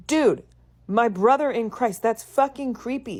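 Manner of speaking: outraged "dude, that's creepy"; disgusted outburst. Real, not acted. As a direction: call it out in disbelief. Outraged reaction to story.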